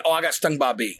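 composed, matter-of-fact imitation; mock-casual explanation; calmed down. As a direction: play it down after a big outburst. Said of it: "and he calms down".

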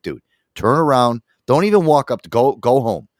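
half-shouted quote of himself; loud retold order.

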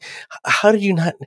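mock outrage at the obvious; exasperated disbelief. Podcaster scolding Deanna for missing it, incredulous.

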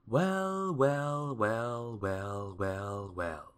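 long run of wells stepping steadily down; exclaiming. A narrator's reading. Wizard eyeing the rolling money, exclaiming in descending steps. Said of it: "exclaimed the wizard".

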